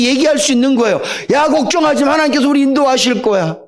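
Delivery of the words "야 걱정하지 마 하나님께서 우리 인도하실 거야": higher and bright with fresh courage; rally the crowd, sure of yourself; confident Moses. Acted. Moses reassuring the frightened people, higher and confident.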